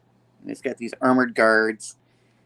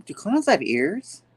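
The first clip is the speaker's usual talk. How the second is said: put-on higher, slow and wondering, like a small child; a light kid's voice asking slowly; little girl voice; 7 semitones higher than usual. Girl asks her dad in a slow, higher child voice.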